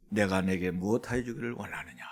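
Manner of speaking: low, soft, solemn acted voice; hushed, low voice of the master; Jesus' solemn question. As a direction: ask gently from deep and quiet authority. Voices Jesus questioning the blind man.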